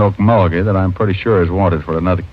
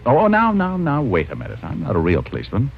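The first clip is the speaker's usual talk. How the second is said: nervous; 3 semitones higher, 5 dB quieter than usual. Acted. Guns pointed at him.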